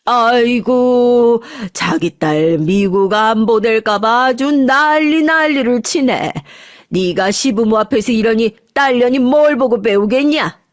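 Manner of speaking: slow, drawn-out mocking old woman; sneering grandmother. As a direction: sneer at the daughter-in-law like a spiteful mother-in-law. Grandmother sneering at daughter-in-law. (며느리를 비꼬는 시어머니, 느릿하게 늘어지는 목소리)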